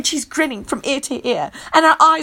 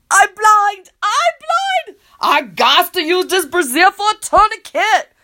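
triumphant; 6 semitones higher than usual. Acted. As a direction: announce it in triumph. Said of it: "she says triumphantly".

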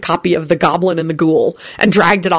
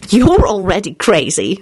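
cheerful; 2 semitones higher than usual. Acted. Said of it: "Solange replied cheerfully".

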